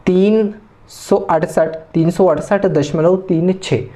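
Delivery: "तीन सौ अड़सठ" whole, then "तीन, छः" as digits; Hindi number reading. Shown as a demonstration. Teacher showing Hindi-medium students, digit by digit. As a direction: read "तीन छः" digit by digit after दशमलव. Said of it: "कैसे पढ़ना है हिंदी में".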